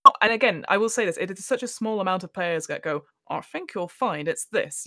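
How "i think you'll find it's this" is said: nasal know-it-all voice; pinched, nasal correction, slow; nasally voice. Retold or imitated. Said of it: "I put on the nasally voice".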